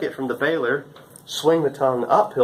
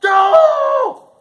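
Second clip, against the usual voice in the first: loud, high call across the field; yelling Joel; 9 dB louder than usual. Retold or imitated. Intern on the wagon yelling to the driver Joel, loud high shout. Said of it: "you gotta yell".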